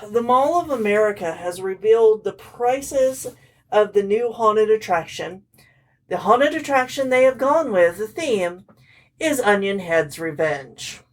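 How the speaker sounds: muffled, talking into her hands; face in hands. Real, not acted. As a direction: speak through cupped hands. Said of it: "Crystal is talking into her hands".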